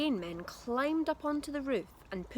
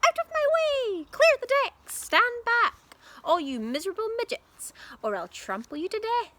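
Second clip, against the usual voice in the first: high, loud wild bellow; shouting; 13 semitones higher, 9 dB louder than usual. A narrator's reading. Grandma shouting at everyone as she gallops about. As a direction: roar it from the galloping pony.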